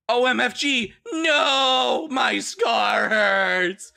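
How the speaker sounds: high screaming cry of pain. Acted. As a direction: scream about the scar. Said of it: "he started screaming".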